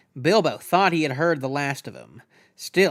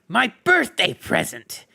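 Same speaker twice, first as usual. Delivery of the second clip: whispered Gollum; 7 semitones higher, 4 dB louder than usual. A narrator's reading. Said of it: "he whispered to himself".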